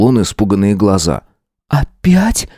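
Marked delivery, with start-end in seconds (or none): 1.7-2.5 higher gasped "Опять?"; gasped question. Acted. Sveta hears he is being followed, gasping "Опять?" higher in alarm. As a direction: gasp it in alarm. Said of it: "ахнула она".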